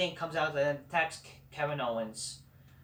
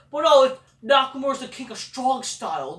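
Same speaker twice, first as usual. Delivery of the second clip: mock hype; 7 semitones higher, 8 dB louder than usual. Mocking hype about Nakamura.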